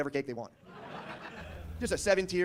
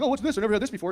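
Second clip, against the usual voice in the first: much higher, wide-eyed wonder; amazed cashier; 6 semitones higher, 3 dB louder than usual. Retold or imitated. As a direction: marvel at every item.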